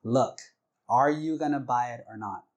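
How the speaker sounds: retold irritation, punchy openings; got mad. Husband snapping at wife over the order, mad. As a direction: demand an answer with mock exasperation. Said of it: "he got mad".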